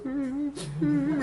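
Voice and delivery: high, soft drawn-out mock whimper; imitated child's whimpering. Imitating the son crying after being scolded, soft mock whimper. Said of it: "또 이제 막 울죠".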